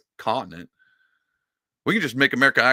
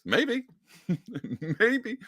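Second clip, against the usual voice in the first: teasing sing-song; 10 semitones higher than usual. Acted. Teasing high maybes.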